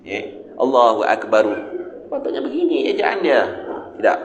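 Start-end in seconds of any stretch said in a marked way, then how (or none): 0.6-1.5 Akbaru with a short u sounded after the r; wrong vowel after ra. Shown as a demonstration. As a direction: let the r of Akbaru open into a vowel. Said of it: "Jangan pandai-pandai apa Allahu Akbaru".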